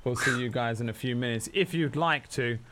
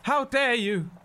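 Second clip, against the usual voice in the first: high, flustered outrage, stammering; a scandalised soldier protesting the kiss; indignant flustered guard; 10 semitones higher than usual. Acted.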